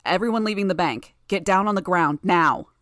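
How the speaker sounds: loud, commanding bellow; bellowed order. Acted. Aegis ordering fleeing hostages to get down, bellowing. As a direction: bellow it out to a crowd. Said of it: "Aegis bellowed".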